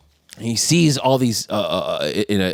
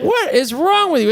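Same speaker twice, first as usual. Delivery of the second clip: retold exasperation; 12 semitones higher than usual. Acted quarrel with boss.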